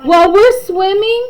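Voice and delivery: put-on kid voice. Classmates guessing about their teacher, lightly voiced kids. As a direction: play a kid imagining the teacher. Children quoted in story.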